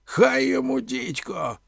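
high, loud exclamation that drops off; cursing. A narrator's reading. Omela pulled from the water, cursing. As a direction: swear in indignant outburst. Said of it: "лаявся Омела".

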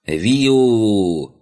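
high, drawn-out animal shriek; loud creature squeal. A narrator's reading. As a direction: squeal like a startled big-eared critter. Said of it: "громогласно заверещала ушастая тварь". (громкий визг ушастой зверушки)

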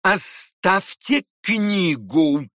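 fierce, slow yelled command; yelling fiercely. Acted. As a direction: bark the order as if ready to pounce. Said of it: "завопил он вдруг, свирепо".

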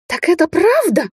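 high, slow, anguished question; tearful rasp. A narrator's reading. Weeping she-wolf learns the truth, distraught. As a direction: wail the question through tears. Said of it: "прохрипела Дарья, опуская реки слёз".

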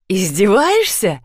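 slow, menacing question; sinister tone. Acted. Viktor menaces his wife, slow and sinister. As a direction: let the threat hang, slowly. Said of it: "зловещим тоном осведомился Виктор".

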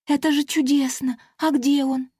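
high, bright fairy voice; excited pixie. Acted. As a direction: clap with joy as a tiny fairy. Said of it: "захлопала в ладоши".

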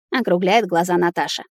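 plain reading voice

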